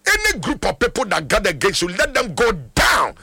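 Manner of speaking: declaring prayer in rapid bursts, dropping at the amen; fervent prayer. Real, not acted. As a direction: pray it out with authority, settling on amen. Prays for a caller on air.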